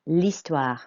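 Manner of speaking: L'HISTOIRE as "lee-STWAR"; silent H. Shown as a demonstration. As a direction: leave the H out of L'HISTOIRE. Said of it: "It's a silent H".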